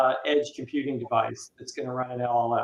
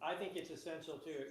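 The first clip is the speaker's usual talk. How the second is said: muffled, far-off, tinny mic; faint hollow line like in a tube; bottom of a tube; 3 semitones higher, 20 dB quieter than usual. Real, not acted. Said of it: "You sound like you're at the bottom of a tube".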